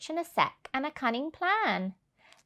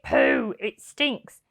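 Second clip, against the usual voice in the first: disgusted; 3 dB louder, slower than usual. Acted. Len digging in the heap, disgusted. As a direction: recoil at the smell. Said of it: "Then Len said".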